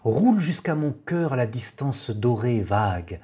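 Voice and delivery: measured poem reading with pauses between lines; poetry recitation. Acted. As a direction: recite the verse evenly, letting each line settle. Reads Valéry's poem aloud.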